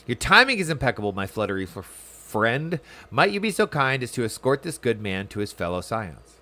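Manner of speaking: lightly acted formal quest-giver; dialogue read aloud. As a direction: read it as measured, courteous game dialogue. Reads game character's dialogue aloud.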